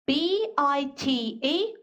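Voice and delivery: slow letter-by-letter spelling. Shown as a demonstration. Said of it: "같이 한번 또 연습해볼까요". (천천히 한 글자씩)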